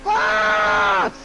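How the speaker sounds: high, loud stunned yell; shocked shout. Real, not acted. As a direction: shout it in disbelief. Disbelief shout in game.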